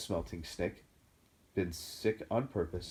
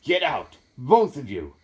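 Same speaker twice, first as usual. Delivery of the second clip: croaked; 5 semitones higher, 11 dB louder, slower than usual. A narrator's reading. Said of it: "croaked Uncle Vernon".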